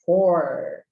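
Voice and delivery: FOR with a held American R; drawn-out R at the end of for. Shown as a demonstration. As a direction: curl the R in for, like a caipira 'porta'. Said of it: "que é o R do porta".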